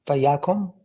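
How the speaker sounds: Vayakom with a short o in the last syllable; "Vayakom", tentative, ending on kom; vowel pronunciation. Shown as a demonstration. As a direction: say "Vayakom" with a questioning lift, o in kom. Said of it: "How did you pronounce the vowel".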